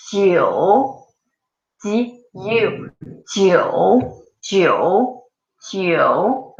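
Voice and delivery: jiu built from ji and you; demonstrated jiu. Shown as a demonstration. Teacher breaking jiu into parts for students. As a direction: slide ji into you. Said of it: "repeat after me".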